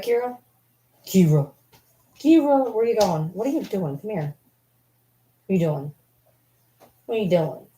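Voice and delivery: high sing-song call to the dog. Real, not acted. Calling Kira to come, coaxing high voice.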